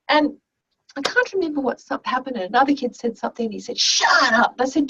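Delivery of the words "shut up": mock angry outburst, drawn out; foul-mood snap. Boy turns on another kid in class, angry. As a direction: imitate a grumpy student's retort. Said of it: "he was in a foul mood".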